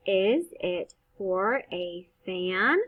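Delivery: slow question, voice going up on fan; question rise. Shown as a demonstration. Teacher showing the question-mark rise. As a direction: lift your voice on fan. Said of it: "We make our voice go up because that is a question mark".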